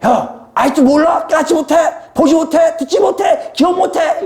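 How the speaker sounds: very high-pitched scolding; acted telling-off, shouted high; Jesus. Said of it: "그들을 야단치시는 거죠".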